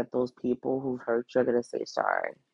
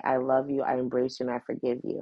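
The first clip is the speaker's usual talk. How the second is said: softening to a quiet, tender close; tender forgiveness; 4 dB quieter, faster than usual. Shown as a demonstration. To the person who hurt you, growing softer and tender. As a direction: offer it gently, getting softer each phrase. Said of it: "go to that person and say".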